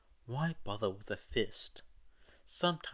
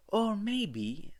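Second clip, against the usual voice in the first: hesitant; 12 semitones higher, 5 dB louder than usual. A narrator's reading. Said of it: "said Toga hesitantly".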